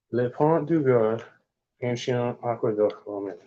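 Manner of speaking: sounding out French words; attempted French. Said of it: "I know it's probably terrible".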